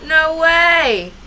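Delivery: loud, high disbelief; shocked exclamation. Real, not acted. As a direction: blurt it out in shock. Creatures escape on screen.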